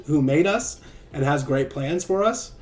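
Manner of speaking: sermon reading. Acted. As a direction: read it out like a devotional. Reads his blog like a sermon.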